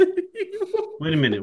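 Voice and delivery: slow, high, drawn-out wait a minute; stunned disbelief. Real, not acted. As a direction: stop everything in disbelief. Listener stunned by the story.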